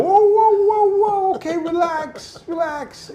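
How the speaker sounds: very high, loud mock panic, easing off; imitated alarmed pacifying. Tattooer calming a ranting client, mock-alarmed. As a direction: imitate someone frantically backing down.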